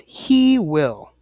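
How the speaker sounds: he will stretched out very slowly, word by word; slow and careful. Shown as a demonstration. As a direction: spell out he will slowly for the class. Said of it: "It's faster to say".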